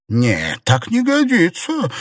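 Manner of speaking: sharp indignant protest, rising high. A narrator's reading. Aunt Xue indignantly refusing her daughter, high. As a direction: refuse it with outrage. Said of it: "возмутилась тётушка Сюэ".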